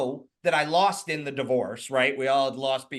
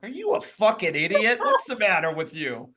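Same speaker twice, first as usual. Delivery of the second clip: incredulous scolding; 3 semitones higher than usual. Retold or imitated. Retold scolding of his friend.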